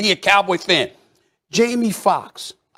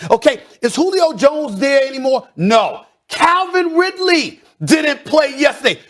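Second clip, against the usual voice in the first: heated shout; 7 semitones higher than usual. Acted. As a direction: rail against the team at full volume. Heated sports rant.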